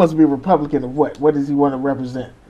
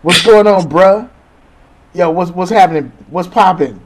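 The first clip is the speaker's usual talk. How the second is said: mock white guy code switching. Mocking white gym-goers greeting a black man, eager bro voice. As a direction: play a white guy trying too hard to sound cool. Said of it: "they will code switch on your ass".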